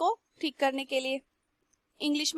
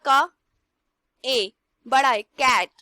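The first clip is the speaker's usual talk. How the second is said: emphasised sounds; 2 semitones lower, 7 dB louder, much slower than usual. Shown as a demonstration. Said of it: "teacher demonstrating sounds".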